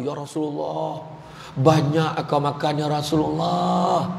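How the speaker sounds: a hint of a slow teasing friend; teasing companion. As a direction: needle him about eating so much. Companion teases the Prophet.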